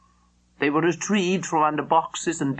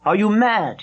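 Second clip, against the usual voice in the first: sharp demand; 5 semitones higher, 5 dB louder than usual. Acted. Officer confronts foreign woman.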